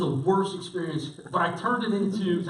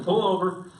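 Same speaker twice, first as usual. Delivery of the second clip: acted-out stern command, raised pitch; firm order; 3 semitones higher than usual. Fed-up passenger ordering the driver to stop, firm.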